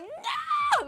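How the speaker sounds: very high, long drawn-out shout; slow-motion no. Pretend. Friend lunging to stop him clicking a link, high slow shout. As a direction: stretch the no like a slow-motion dive. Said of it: "slow motion running".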